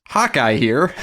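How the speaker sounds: rising, puzzled echo of the words Hawkeye here; incredulous quote. Retold or imitated. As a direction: repeat it as if it sounds odd. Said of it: "find it weird that he".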